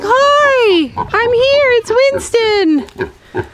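high, bright goat voice, trailing to a breath on the name; goat's voice. Pretend. Voicing Winston the goat greeting kids, high and happy. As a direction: play the friendly goat saying hello. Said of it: "He's like".

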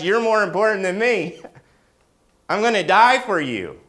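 preacher crying out as God with rising fervor; soaring voicing of God. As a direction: swell it into a passionate declaration. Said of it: "he says".

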